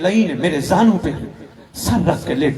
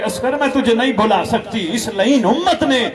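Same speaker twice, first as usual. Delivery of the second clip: put-on higher, keening lament for a lost baby; grieving mother's wail; 5 semitones higher than usual. Mother mourning her infant son at his grave, wailing. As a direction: cry it out, rocking the little shirt. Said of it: "कुर्ता हिला हिला के कहती है".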